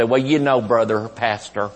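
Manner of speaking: slow, drawn-out pleading testimony; whiny churchgoer testimony. Retold or imitated. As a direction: imitate a tired churchgoer pleading his efforts. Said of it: "and they'd say".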